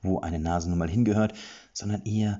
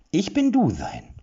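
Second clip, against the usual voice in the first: much higher and louder, slow; proud squeaky creature; 11 semitones higher, 6 dB louder, slower than usual. Acted. Creature declaring its name to Erik, high squeak. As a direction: announce your name proudly.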